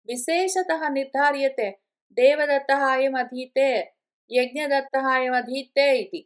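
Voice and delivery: slow, measured scripture reading; measured recital of a commentary passage; Sanskrit text recitation. Acted. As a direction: read out the Sanskrit deliberately, drawing out the syllables.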